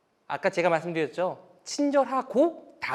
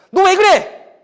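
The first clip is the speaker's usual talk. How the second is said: sudden much higher, much louder angry snap; angry dad; 13 semitones higher, 15 dB louder, much slower than usual. Retold or imitated. Father yelling at the child over a broken cup, angry outburst. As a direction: blow up at the child. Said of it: "이렇게 화를 내잖아요".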